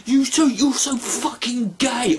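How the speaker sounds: shouted curse at God; angry shout. Real, not acted. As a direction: yell it at God. Cursing God.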